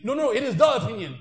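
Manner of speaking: insistent. Pretend. Pushy da'i insisting.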